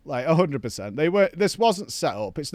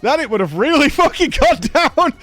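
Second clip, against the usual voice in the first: laughing through the words, louder; half laughing at the thought; laughing disbelief; 10 semitones higher, 7 dB louder than usual. Real, not acted. Laughing at near miss.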